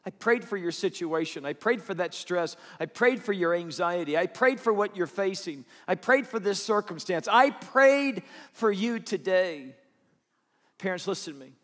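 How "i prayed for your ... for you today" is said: building prayer. Shown as a demonstration. Parent telling a child of prayers, building louder. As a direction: build it up line by line. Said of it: "uttered those words to your child".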